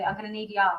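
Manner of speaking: "y'all" said as one drawled syllable; proper y'all. Shown as a demonstration. Corrects how a comment is read, "y'all" as one word. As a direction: run "you all" together into "y'all". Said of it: "read it properly".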